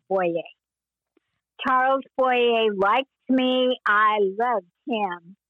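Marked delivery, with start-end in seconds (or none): 1.7-5.4 slow, savoring each word with affection; fond remembering. Real, not acted. Recalling the kind actor who gave her a doll, slow and fond. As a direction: linger lovingly on the memory.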